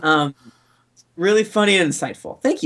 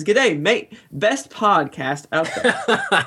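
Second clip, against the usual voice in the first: lightly put-on Australian accent; bad Australian accent; slower than usual. Host reading a listener review from Canada, bad Australian accent. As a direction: read it in a badly faked Australian accent. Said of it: "you do a really bad accent".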